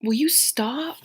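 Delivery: high, slow pet-scolding voice; exasperated plea to a misbehaving cat; stretched-out high "will you stop". Real, not acted. Scolding her cat mid-stream.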